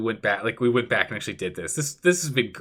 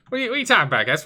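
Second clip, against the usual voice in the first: incredulous squeak; 9 semitones higher, much faster than usual. Real, not acted. Streamer reacting in disbelief.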